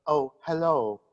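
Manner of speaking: lightly voiced ship's counselor; a touch of theatrical poise; Deanna Troi. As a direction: introduce yourself as the counselor character. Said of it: "we have another special guest from the old crew".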